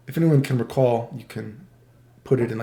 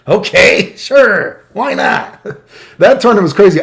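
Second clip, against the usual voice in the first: laughing; 6 semitones higher, 6 dB louder, slower than usual. Real, not acted. Laughing at absurd bracket.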